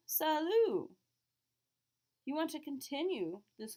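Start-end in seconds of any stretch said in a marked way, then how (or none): 0.1-0.9 cheery salut. Retold or imitated. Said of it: "So I say".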